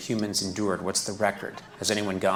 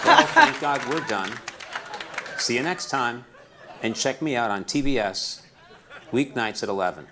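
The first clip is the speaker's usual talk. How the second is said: talking toilet; 2 semitones higher, 3 dB louder than usual. Pretend. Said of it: "the voice of a new toilet".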